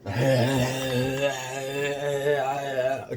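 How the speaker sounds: drawn-out breathy mock groan; long strained noise. Officer trying to get his pinky, imitated long strained noise.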